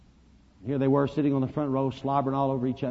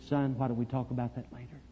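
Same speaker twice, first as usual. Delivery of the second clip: gentle putting off; 6 dB quieter than usual. Retold or imitated. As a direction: softly stall a child with kindness. Preacher putting boy off gently.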